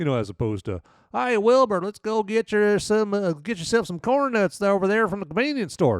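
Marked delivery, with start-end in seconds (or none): 1.1-6.0 thick, heavy Southern US accent, pitched up. Contrasting with a British accent, a casual line in a heavy Southern American accent. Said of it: "all apologies to my friends with very heavy Southern accents".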